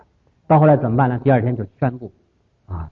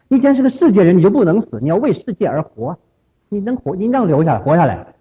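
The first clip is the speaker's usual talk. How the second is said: urgent pleading; 5 semitones higher, 3 dB louder than usual. Retold or imitated. Disciples pleading with teacher.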